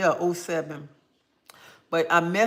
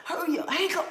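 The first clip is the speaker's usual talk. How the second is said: laughing plea; 12 semitones higher, faster than usual. Retold or imitated. Retold panic, laughing.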